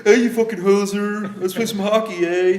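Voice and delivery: mock Canadian. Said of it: "those goddamn Canadians".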